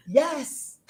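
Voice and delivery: put-on a quick yes in a light Nigerian accent. Replying to somebody asking if she is Irish, in a lightly Nigerian-accented yes. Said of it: "with a Nigerian accent".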